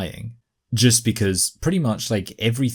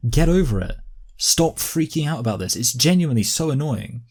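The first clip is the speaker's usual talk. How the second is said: raised, higher-pitched, fed-up rant; exasperated outburst; 5 semitones higher than usual. Real, not acted. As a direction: snap impatiently at someone to get over it.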